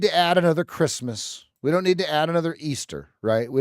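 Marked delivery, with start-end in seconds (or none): none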